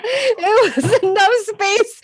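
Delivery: slow, laughing through the words; can barely get it out for laughing. Real, not acted. Laughing while retelling.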